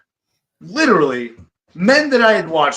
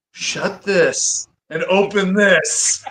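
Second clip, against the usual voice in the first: mock self-scolding; 3 semitones higher, much slower than usual. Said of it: "slap myself and go".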